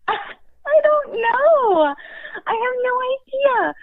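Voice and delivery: nervous laugh, high and slow. Real, not acted. Asked about moving to DC, laughing nervously. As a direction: laugh through the worry, drawn out.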